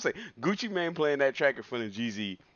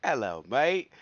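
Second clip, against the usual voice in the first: mock British; 4 dB louder, slower than usual. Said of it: "as the British would say".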